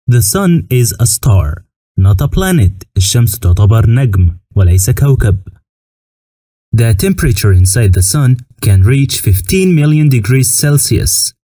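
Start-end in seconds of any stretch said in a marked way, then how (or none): 0.1-2.9 very slow, careful English; slow teaching read. Shown as a demonstration. Teacher reading the sun fact slowly to the class. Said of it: "teacher models English sentence". 6.8-11.3 slow, careful English, word by word; slow teaching read. Shown as a demonstration. Teacher reading the temperature fact slowly to students. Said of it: "teacher models English sentence".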